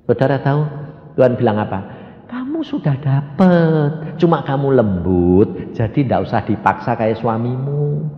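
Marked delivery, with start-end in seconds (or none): 2.3-8.1 slow, soothing voice of God; gentle reassurance. Retold or imitated. God comforting the preacher's wife, slow and gentle. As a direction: draw the words out tenderly.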